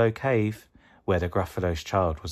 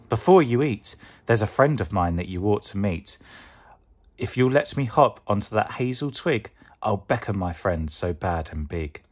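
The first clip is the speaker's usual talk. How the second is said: 1 mouse voice. Acted. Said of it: "said the mouse".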